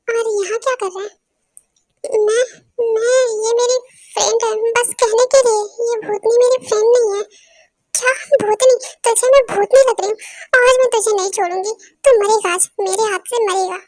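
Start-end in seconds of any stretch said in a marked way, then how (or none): 2.3-7.2 panicked plea. Acted. Pleading to stranger about witch. 7.9-13.8 louder, outraged threats; furious shout. Acted. Tai furious at being called witch.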